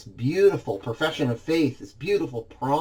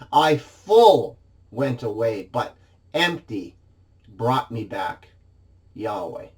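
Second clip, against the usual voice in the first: slow, each phrase set apart, fading to the end; literal word order; 3 semitones lower than usual. Shown as a demonstration. Preacher showing the congregation the Hebrew word order, slow and deliberate. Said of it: "Literally in the Hebrew, it reads".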